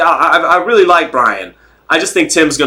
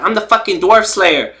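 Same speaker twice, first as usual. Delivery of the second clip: higher-voiced boxer impression; Rolly; 5 semitones higher than usual. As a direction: imitate a fighter proudly unveiling a nickname. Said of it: "he unveiled the phrase Dwarf Slayer".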